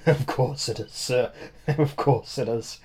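laughing. A narrator's reading. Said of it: "The O'Dowd laughed as if I'd told a deliberate joke".

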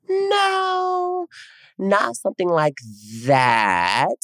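squeaky flustered no; high-pitched evasive reply; high nervous denial. Retold or imitated. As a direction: shoot way up, caught out. Answering mom in story.

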